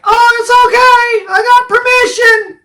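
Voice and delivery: sweet reassuring Christina. Retold or imitated. Christina calming the angry landowner, sing-song. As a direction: soothe him in a sing-song. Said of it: "Christina's like".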